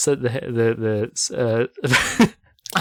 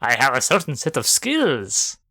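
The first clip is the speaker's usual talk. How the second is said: Liam Neeson. Retold or imitated. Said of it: "That's Liam Neeson".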